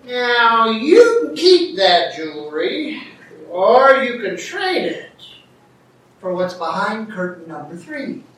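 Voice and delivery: lightly imitated game show host; Monty Hall. Host offering an audience member a trade, light showman imitation. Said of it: "And then he'd say".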